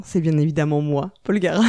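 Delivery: hammed-up grandeur, announcing yourself; grandiose self-introduction. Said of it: "Désolé de ce moment de mégalomanie".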